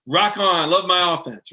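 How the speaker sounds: excited mock coach cheer; mock happy Kirby. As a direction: play Kirby beaming about his offense.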